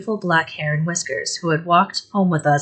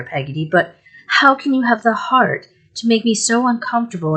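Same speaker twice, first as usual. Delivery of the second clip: tearful reproach; 4 semitones higher than usual. Acted. Mother upset, crying.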